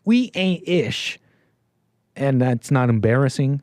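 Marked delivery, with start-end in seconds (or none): 0.1-1.2 mocking the caller. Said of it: "the white man saying".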